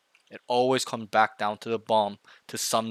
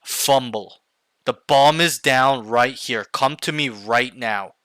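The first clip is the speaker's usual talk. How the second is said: slow, emphatic team call; deliberate, demonstrated yell at moderate volume; firm call-out; 6 dB louder, slower than usual. Shown as a demonstration. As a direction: call it out firmly, word by word. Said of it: "needs to yell".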